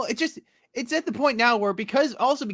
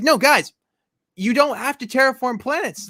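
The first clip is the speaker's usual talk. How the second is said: raised, high-pitched protest; mock pleading; 5 semitones higher, 5 dB louder than usual. Heroes talking gems out of terraforming, mock pleading. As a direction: plead with them to change their ways.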